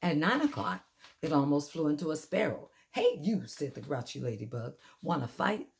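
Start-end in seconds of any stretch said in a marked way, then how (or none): 2.9-5.7 grouchy challenge. Acted. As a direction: pick a fight with a mantis. Grouchy ladybug picks a fight.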